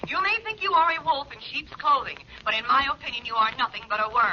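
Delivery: fast, contemptuous phone rant; scornful blackmailer scolding her victim; angry tirade. Acted. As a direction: tear into him, spitting insults. Blackmailer berates him over phone.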